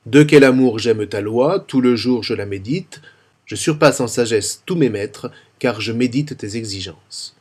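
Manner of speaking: De quel amour j'aime ta loi with every e muet clearly voiced; sounding the mute e's. Shown as a demonstration. Teacher models careful diction for lectors at the microphone, every mute e sounded. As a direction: pronounce each mute e in tout le jour je la médite. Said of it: "je mets en valeur tous les E muets".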